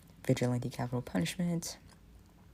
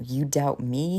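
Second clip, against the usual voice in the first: mild bellow; 4 dB louder, slower than usual. Acted. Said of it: "he bellows".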